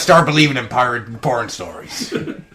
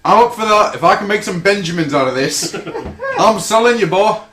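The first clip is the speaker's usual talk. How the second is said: gleeful hustler; 4 semitones higher, 4 dB louder than usual. Acted. Mock hustler selling his friend.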